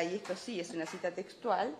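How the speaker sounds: ordinary delivery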